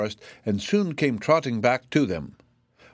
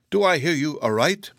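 higher-pitched incredulous question; astonished; 5 semitones higher than usual. A narrator's reading. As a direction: ask as if you can't believe your ears. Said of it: "exclaimed the zebra in astonishment".

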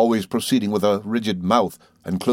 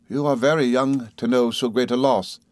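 a lady's voice, a little higher, measured; polite regret from a proud mother; lightly voiced grave lady; stately mother; 4 semitones higher than usual. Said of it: "she returned".

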